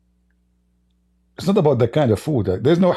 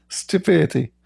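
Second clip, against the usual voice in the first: whispered laugh; 6 semitones higher than usual. Real, not acted.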